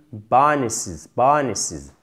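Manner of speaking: "Bonuses, bonuses" with short i in the endings; careful English "bonuses", short unstressed i. Shown as a demonstration. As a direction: stress the first syllable of "Bonuses", keep the i short. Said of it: "c'est un I court. Faites bien attention".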